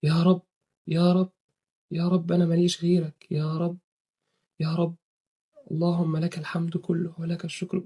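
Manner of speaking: دعاء خاشع هادئ; sincere prayer. Shown as a demonstration. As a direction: pray like you have no one else. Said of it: "واقعد قول له".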